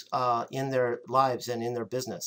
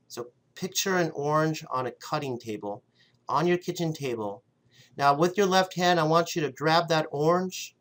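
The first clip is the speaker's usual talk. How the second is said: guided visualization. Acted. Leads a visualization.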